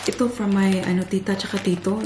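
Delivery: ordinary talk, nothing marked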